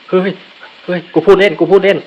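high, loud frightened yelp; panicked backpedal. Real, not acted. Ghost rushes him after his threat, yelping in panic. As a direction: squeal it out, begging off.

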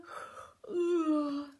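loud acted yawn; big voiced, breath-filled yawn; sleepy yawn. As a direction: yawn noisily as tired Santa. Sleepy Santa's noise.

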